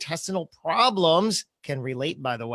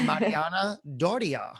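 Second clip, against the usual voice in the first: New Jersey accent; 4 dB quieter than usual. Shown as a demonstration. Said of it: "in my New Jersey accent".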